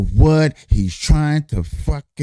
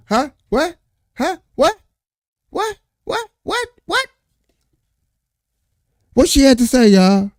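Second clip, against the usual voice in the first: incredulous outcry; 11 semitones higher than usual. Real, not acted. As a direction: throw it high at the viewers in disbelief. Incredulous outburst at viewers.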